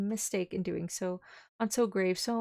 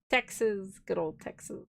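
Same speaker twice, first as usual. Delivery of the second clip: mock Texan drawl; slower than usual.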